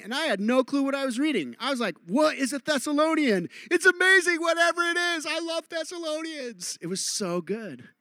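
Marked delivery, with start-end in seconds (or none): 2.1-6.8 high, gushing mock enthusiasm; hammed-up breathless wonder at top pitch; overexcited new convert. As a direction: gush like a clueless, thrilled beginner. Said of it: "God was just shouting".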